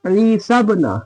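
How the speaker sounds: slow, measured chant with held long vowels; Quran recitation. Shown as a demonstration. Teacher reciting the verse for students, slow measured chant. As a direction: recite slowly and evenly, drawing out long syllables.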